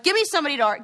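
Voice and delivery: high-pitched, eager for a fight; fired up. Real, not acted. Itching for somebody to argue with, fired up. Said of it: "now I'm all fired up".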